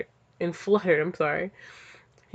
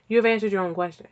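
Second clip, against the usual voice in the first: fast and louder, rattled off; quicker louder reread of the AI line; rapid louder retake; 5 dB louder, much faster than usual. Shown as a demonstration. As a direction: snap the line out quick and punchy. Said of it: "Why you say it like that?".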